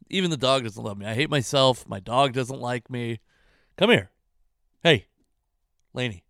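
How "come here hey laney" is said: yelling across the room. Real, not acted. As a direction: call her from across the house. Calling dog, loud high.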